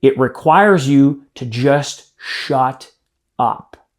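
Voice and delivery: slow, dropping to a hush on "shut up"; dramatic pause. Shown as a demonstration. Coach showing trainees a pause for impact, slowed and hushed. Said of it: "I'm doing it right now for focus and for impact".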